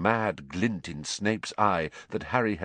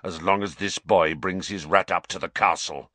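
snarling; 4 semitones lower than usual. Acted. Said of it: "snarled Black".

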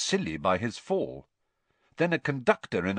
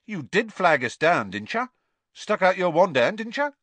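suspicious; 10 semitones higher, 7 dB louder than usual. A narrator's reading. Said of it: "looking suspicious again".

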